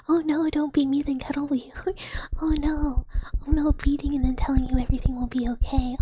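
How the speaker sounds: hammed-up pleading in a breath-heavy whisper; mock dismay. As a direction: play the alarmed victim.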